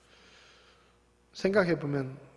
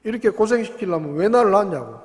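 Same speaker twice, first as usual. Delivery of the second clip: put-on rude child; 3 semitones higher, 6 dB louder than usual. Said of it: "싸가지 없는 소리를 하고".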